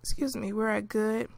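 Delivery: words broken by hiccups; hiccuping and coughing. Real, not acted. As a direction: talk through a tickly cough. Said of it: "I'm hiccuping and I'm coughing".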